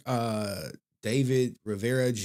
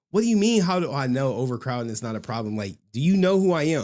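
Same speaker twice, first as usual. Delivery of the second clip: louder, indignant comeback; mock offended, a bit louder; indignant retort; 4 dB louder than usual. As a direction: scoff at the question. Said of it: "I'm like".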